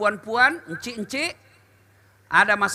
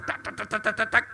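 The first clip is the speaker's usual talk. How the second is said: nagging chatter; 5 dB quieter, faster than usual. Retold or imitated. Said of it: "Ngomel dia di ruang tamu".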